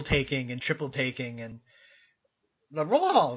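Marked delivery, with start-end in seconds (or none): 2.7-3.4 lightly voiced jittery comic imitation; brief pitch jump in a mock comic babble; throwaway celebrity impression; Don Knotts. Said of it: "that's my Don Knotts impression".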